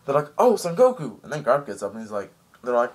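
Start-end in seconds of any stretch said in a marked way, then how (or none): 0.4-1.2 surprised greeting. Retold or imitated. Crowd greets Goku.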